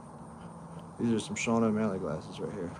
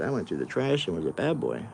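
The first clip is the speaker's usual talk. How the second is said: speaking for pet; 5 semitones lower than usual. Pretend. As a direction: lower playful voice for the dog. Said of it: "He said".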